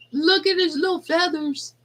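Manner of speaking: high sing-song coo. Real, not acted. Showing the chicks to Amber, high baby talk. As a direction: gush over the tiny feathers.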